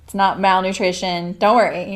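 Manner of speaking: a hint of a mom comforting through laughter; mom reassuring. Mom laughing while comforting her crying pregnant daughter, lightly voiced. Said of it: "She's like".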